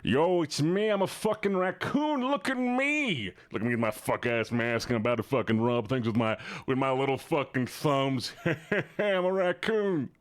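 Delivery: a hint of a brash raccoon bragging; raccoon impression. Streamer asked by chat to do a raccoon, lightly voiced. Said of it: "Can you do a raccoon noise?".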